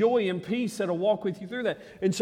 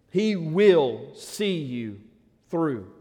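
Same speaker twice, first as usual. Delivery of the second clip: slow, tender repeat; 5 semitones lower, much slower than usual. Shown as a demonstration. Pastor repeating a promise to the hurting congregation, slow and gentle. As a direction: let each word land, slower, like a promise.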